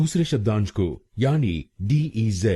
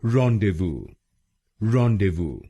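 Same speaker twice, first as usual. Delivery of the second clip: "rendezvous" with the weight on ron; stress on the first syllable; much slower than usual. Shown as a demonstration. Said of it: "पहले शब्दांश पर ... जोर डालना है". ("rendezvous" में पहले शब्दांश "रॉन" पर ज़ोर)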